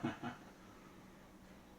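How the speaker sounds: soft, breathy chuckle; short laugh. Real, not acted. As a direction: chuckle quietly under the breath. Amused reaction at the table.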